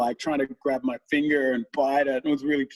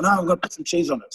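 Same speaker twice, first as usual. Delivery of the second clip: insistent daughter; 5 semitones higher, faster than usual. Retold or imitated.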